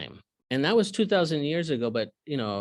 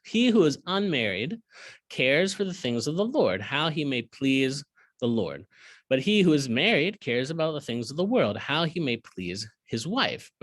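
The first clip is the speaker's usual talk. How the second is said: scripture reading. Acted. Teacher reading the verse to his class, measured. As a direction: read each clause deliberately.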